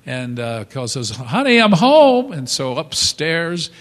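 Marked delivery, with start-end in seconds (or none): 1.1-2.3 calling out. Retold or imitated. Husband calling up to wife.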